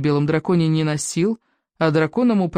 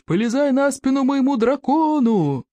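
shouting; 8 semitones higher than usual. A narrator's reading. Warrior shouting over flames.

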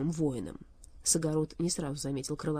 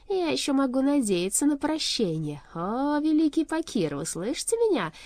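fervent imploring; 8 semitones higher, 4 dB louder than usual. A narrator's reading. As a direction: call out beseechingly to your master. King implores his master.

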